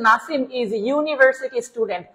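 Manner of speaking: reading the question very slowly; slow reading aloud. Shown as a demonstration. Teacher reading exam question to class, very slow. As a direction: read the sentence out slowly, word by word. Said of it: "দেখেন তো sir পাঁচ number প্রশ্ন কি বলছে".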